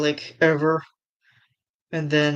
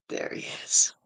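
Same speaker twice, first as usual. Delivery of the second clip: whispering; 7 dB quieter than usual. Real, not acted. Hushed reveal of fan art.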